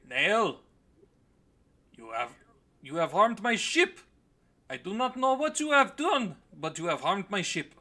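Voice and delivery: loud, high, outraged orc voice; hammed-up orc outrage; indignant orc. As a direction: accuse at full volume, pitch leaping up. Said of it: "the orc here says".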